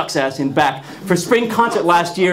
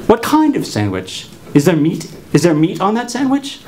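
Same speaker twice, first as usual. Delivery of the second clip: teacher quizzing voice; 3 semitones higher than usual. Retold or imitated. Therapist quizzing, higher.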